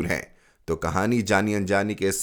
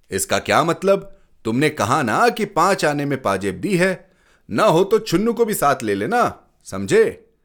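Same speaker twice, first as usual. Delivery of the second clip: louder, higher pressing reproach; stern insistence; 5 semitones higher, 3 dB louder than usual. Acted. Father insists the boy go fetch the anklet, stern and louder. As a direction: push the child hard, no nonsense.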